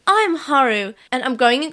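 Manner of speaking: put-on improvised character voice slipping into English accent; Haru. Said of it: "why are they always go English".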